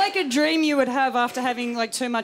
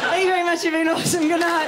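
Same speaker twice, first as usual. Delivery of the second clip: louder, higher mock sign-off shout; a jokey Nicole Kidman sign-off, loud and high; 5 semitones higher, 5 dB louder, faster than usual. Comic ends her set as a fake Nicole Kidman, shouting. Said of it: "this is, uh, Nicole Kidman".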